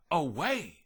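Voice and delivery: butterfly voice. Acted. Butterfly answers.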